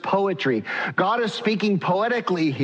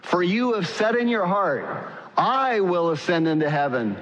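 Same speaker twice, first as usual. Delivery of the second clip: unison reading. Shown as a demonstration. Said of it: "let me hear you read this in a unified voice".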